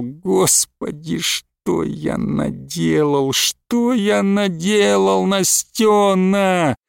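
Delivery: slow, drawn-out groan; husband moaning to his wife, slow and despairing. A narrator's reading. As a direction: moan it out slowly in despair. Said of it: "простонал".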